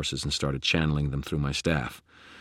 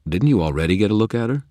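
higher, louder, quick challenge; incredulous question; 6 semitones higher, 7 dB louder, faster than usual. Acted. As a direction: ask it fast and in disbelief. Michael questions in dialogue.

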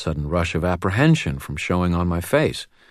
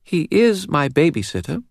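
put-on high, serious child's voice with a faint British lilt; serious little girl, faint British accent; 11 semitones higher than usual. A narrator's reading. Narrator voicing the girl to Dresden, serious and high. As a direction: speak like a grave little girl. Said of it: "her voice serious and marked with a faint British accent".

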